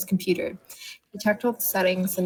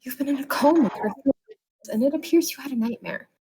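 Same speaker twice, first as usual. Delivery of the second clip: calm nurse; 5 semitones higher than usual. Acted. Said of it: "She calmly answered".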